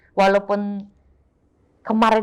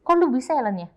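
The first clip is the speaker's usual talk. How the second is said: imitating amazed friends; 5 semitones higher than usual. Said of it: "gue bilang gitu".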